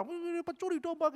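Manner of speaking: beaucoup plus aigu et lent, méprisant; accusation moqueuse. Retold or imitated. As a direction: cracher l'accusation. Orang marah-marah.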